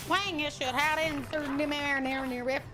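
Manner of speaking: garbled speech in a Southern twang. Shown as a demonstration. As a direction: slur it into a thick Southern twang. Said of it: "Not only was it twang".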